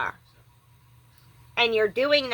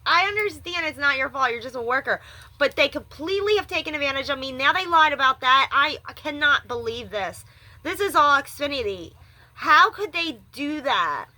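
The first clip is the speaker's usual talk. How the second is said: near crying, high and strained; tearful distress; 3 semitones higher than usual. Real, not acted. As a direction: plead through tears. Crying over being cheated.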